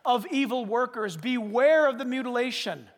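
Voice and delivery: forceful preaching. Acted. Preacher warning the congregation, forceful scripture reading. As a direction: hammer the warnings home from the pulpit.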